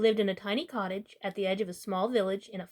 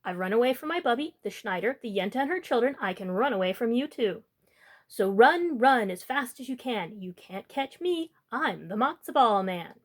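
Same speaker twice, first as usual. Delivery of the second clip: taunting call. Acted. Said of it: "He called back over his shoulder".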